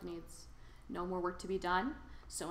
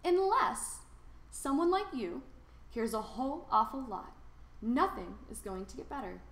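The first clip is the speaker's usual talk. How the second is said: earnest; 7 semitones higher than usual. A narrator's reading. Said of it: "says the Onceler".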